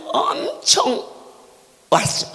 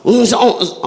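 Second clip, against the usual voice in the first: louder crowd murmur; 5 dB louder, much faster than usual. Retold or imitated. Preacher imitating the crowd growing restless, louder mock murmur. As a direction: murmur pushed louder, rising unrest. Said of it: "사기다 웅성거릴 때".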